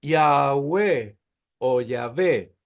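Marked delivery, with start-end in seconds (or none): 0.0-1.2 Yahweh said as "ya-weh", with a W and the stress at the end; saying Yahweh. Shown as a demonstration. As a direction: carefully spell out Yahweh as ya-weh with a W. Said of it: "le dicen".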